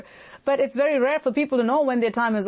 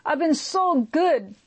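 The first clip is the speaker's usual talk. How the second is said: pleading cry; 3 semitones higher than usual. Retold or imitated. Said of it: "at the point he cries out".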